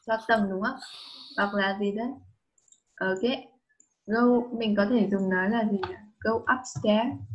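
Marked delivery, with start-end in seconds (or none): 6.2-7.2 "Go upstairs." drawn out slowly, rising on upstairs; teacher says it slowly so the child can copy; slow model phrase. Shown as a demonstration. Teacher models the phrase for the child, slow and clear. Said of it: "viết tắt đấy".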